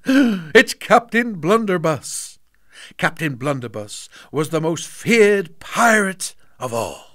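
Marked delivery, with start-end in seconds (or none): 0.1-2.4 slow, higher awed dread; fearful. A narrator's reading. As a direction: breathe the name in fright. Boy names the feared pirate.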